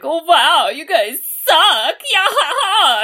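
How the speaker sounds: high, mock-taunting rival with a fake laugh; mocking jerk. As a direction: sneer at them like the rude rival. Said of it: "he would be like".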